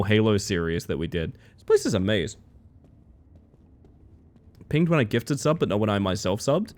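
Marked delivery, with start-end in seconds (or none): none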